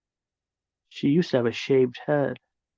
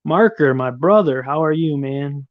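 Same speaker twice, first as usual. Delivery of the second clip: loud greeting; 6 dB louder than usual. Real, not acted. Greeting a new chatter.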